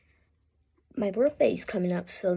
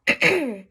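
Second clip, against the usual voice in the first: buzzing throat rasp; 5 semitones higher, 5 dB louder than usual. Shown as a demonstration. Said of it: "You need to do that same thing".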